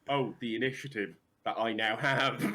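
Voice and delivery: shouted through laughter; laughing mock villain. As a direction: gloat while cracking up. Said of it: "being like".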